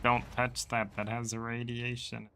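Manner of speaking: lightly voiced grumpy old man; a hint of an old man ranting. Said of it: "Old man voice ranting about food".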